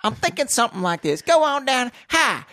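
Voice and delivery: country Southern accent. Shown as a demonstration. Podcaster demonstrating how country to go, Southern accent. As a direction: lay on a country Southern twang. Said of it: "How country should I go".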